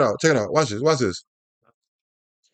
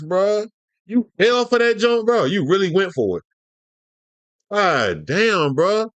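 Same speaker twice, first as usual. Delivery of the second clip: a rapper's voice. Retold or imitated. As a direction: tease him lightly in a rapper's drawl. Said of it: "In my rapper voice".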